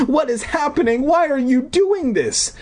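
high alarmed pleading; panicked questions. Acted. Wendy pleading with Deirdre in high alarm. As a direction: demand answers in alarm.

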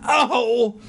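high, short startled "oh"; mock cry of alarm; acted startled cry. A narrator's reading. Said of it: "I let out a low cry".

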